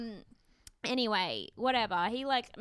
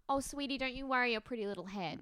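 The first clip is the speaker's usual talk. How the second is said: mock-sweet, higher condescending coo; 4 semitones higher than usual. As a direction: patronise them sweetly. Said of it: "sweet take is like".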